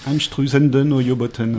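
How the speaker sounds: A band name said slowly and carefully in German, the second word as NOY-bow-ten; correct German pronunciation. Shown as a demonstration. Correcting the host, the band name said slowly in proper German. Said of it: a mangled version of the band name.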